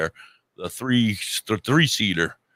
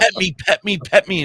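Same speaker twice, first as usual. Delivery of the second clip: begging dog voice; 8 semitones higher than usual. Retold or imitated.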